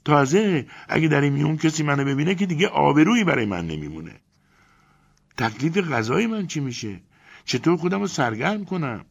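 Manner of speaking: very high, loud indignant woman's voice; outraged yelling. Acted. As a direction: Elena rants about entering the crocodile, outraged. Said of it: "داد و غار را انداخت".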